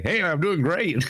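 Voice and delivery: high, slow goofy greeting; exaggerated cheerful drawn-out hey; imitating co-host. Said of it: "He'll be like".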